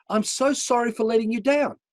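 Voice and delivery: high-pitched, imitating a crying woman; retold tearful plea; tearful apology. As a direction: voice a weeping apology, pitched well up. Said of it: "And she's crying".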